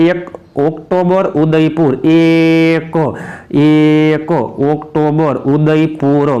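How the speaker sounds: drawn-out mnemonic; slow drilling. Shown as a demonstration. Teacher repeating the memory trick for students, drawn out. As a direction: stretch the words out for memorising.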